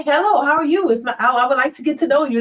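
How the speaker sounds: prim, proper, rushed greeting; mock the proper gentleman asking to get acquainted; stiff polite suitor. Mocking the proper man who greets women too formally. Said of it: "you can't really say".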